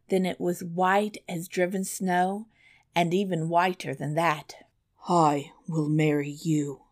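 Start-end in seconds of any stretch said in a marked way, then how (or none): 5.1-6.9 whispered vow. A narrator's reading. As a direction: whisper the promise tenderly. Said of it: "said the prince".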